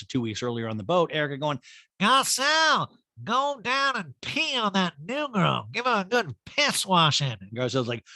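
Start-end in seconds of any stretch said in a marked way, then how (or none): 2.0-7.4 put-on high, slow drunken holler; hammed-up boozy heckling; mock drunk diva. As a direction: bellow the name, then drag out the order. Recapper mimics drunk Erica on boat.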